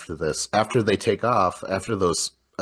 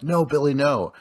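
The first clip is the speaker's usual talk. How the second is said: mild mock scream, higher pitch; retold scream; 6 semitones higher than usual. Podcaster retelling a caller's screamed plea to a co-host, mock scream. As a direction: imitate a scream without really screaming. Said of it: "then he starts screaming".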